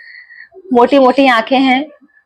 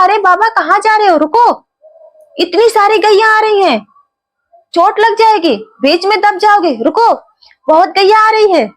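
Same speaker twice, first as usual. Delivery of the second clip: a lightly voiced young boy calling out to stop him; 5 semitones higher than usual. Young cowherd boy warning the old sadhu, lightly voiced and calling. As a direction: call after the old man like a village boy. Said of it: "एक बालक ने आवाज दी".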